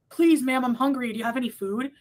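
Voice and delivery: lightly voiced begging plea; a touch of mock pleading; pleading homeless man. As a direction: imitate a hungry man asking politely. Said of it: "this homeless guy outside of".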